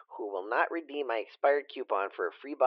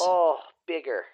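mock ecstatic moan; 4 semitones higher, 3 dB louder, slower than usual.

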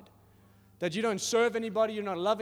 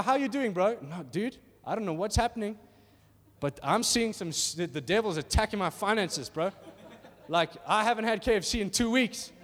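bro chat; 2 semitones higher, 4 dB louder than usual. Acted. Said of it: "acted bro conversation".

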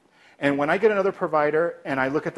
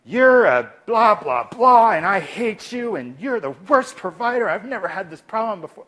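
loud, high angry rant; angry patient yelling; 6 semitones higher, 5 dB louder than usual. Shown as a demonstration. Angry patient yelling at the provider, loud and high. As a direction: play the furious patient shouting at the provider. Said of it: "Oh, I can't go that loud".

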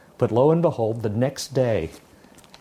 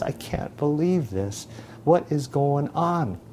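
mild crying; 4 dB quieter, slower than usual. Acted. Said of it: "just crying".

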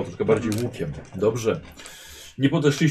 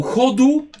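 a higher, louder echo of the cry; retold shout; 13 semitones higher, 6 dB louder than usual. Game master repeating what the player shouted, mild yell. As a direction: repeat the yell, a bit toned down. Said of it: "Krzyknął".

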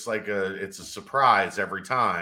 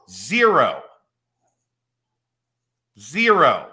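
stunned; 5 semitones higher, 8 dB louder, much slower than usual. Retold or imitated. Stunned at the flat tire.

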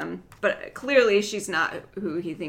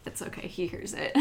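hushed, voiceless whisper; whispered tease about her husband; 8 dB quieter than usual. Real, not acted. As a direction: whisper it as if he might overhear. Joking husband can hear.

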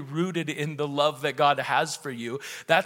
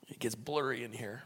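tearful laugh; 6 semitones lower, 14 dB quieter than usual. Real, not acted. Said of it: "I'm so sorry I got so, uh, emotional".

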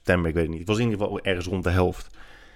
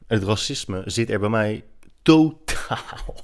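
whispered aside; 3 semitones higher, slower than usual. Real, not acted. Denying racism mid-laugh.

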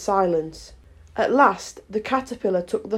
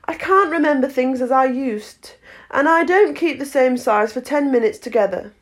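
lightly voiced storybook girl; a hint of a young heroine, pitched higher; earnest polite Alice; 5 semitones higher than usual.

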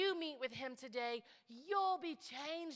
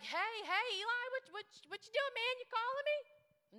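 put-on sleepy boy; 12 semitones higher, 6 dB louder than usual. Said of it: "he'd be like".

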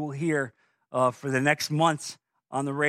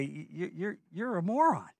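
mock exasperated retort; 3 semitones higher, 5 dB quieter than usual. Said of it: "look at them and say".

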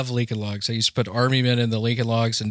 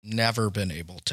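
whispering; 3 semitones lower, 5 dB quieter than usual. Acted. Mock sad echo.

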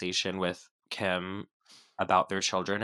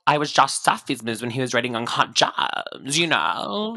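loud drawled vocal fry imitation; Julia Fox impression; 3 semitones higher, 5 dB louder than usual. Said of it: "I sound like that".

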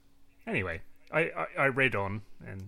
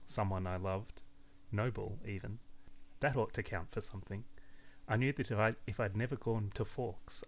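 story narration; 4 dB quieter than usual. Acted. Reads book page aloud.

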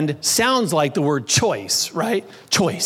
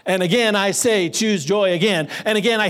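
building repetition; 2 semitones higher than usual. Retold or imitated. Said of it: "he could keep going on and on".

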